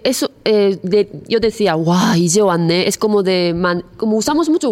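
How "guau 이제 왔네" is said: irónico. Shown as a demonstration. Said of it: "un poco de ironía, el tono".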